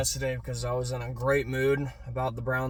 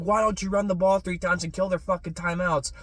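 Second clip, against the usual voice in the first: retold cursing; 5 semitones higher than usual. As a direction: drag out stupid jackass in contempt. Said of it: "cursing the Browns".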